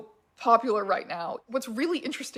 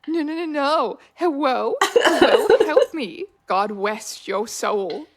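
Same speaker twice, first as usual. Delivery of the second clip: mock panicked pleading; 3 semitones higher, 5 dB louder, slower than usual. A trapped roleplayer begs someone to save her, in hammed-up panic. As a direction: ham up a desperate call for help.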